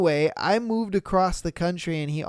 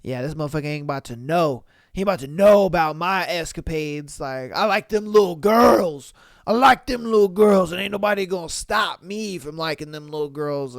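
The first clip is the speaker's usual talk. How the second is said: mock villain; 3 dB louder than usual. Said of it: "he's like".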